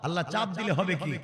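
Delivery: ordinary talk, nothing marked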